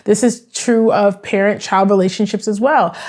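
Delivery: normal talking voice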